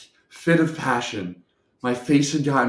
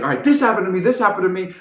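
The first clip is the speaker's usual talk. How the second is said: louder, higher mock complaining; more intense complaint; 5 semitones higher, 5 dB louder, faster than usual. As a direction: push the acted grievance harder, voice raised. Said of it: "So I stayed in it".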